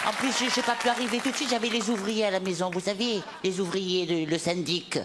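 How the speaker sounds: fussy old Pied-Noir lady voice, lightly put on; Madame Sarfati. Madame Sarfati grumbling to the TV host: old lady character voice. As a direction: play the indignant grandmother complaining. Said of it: "c'est Madame Sarfati".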